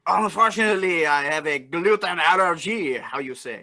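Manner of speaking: lightly put-on Cajun accent. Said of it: "do this with a Cajun accent".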